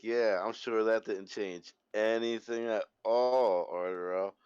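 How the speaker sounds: dry sarcastic remark. Acted. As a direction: say it with heavy sarcasm. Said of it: "Sarcastic as fuck".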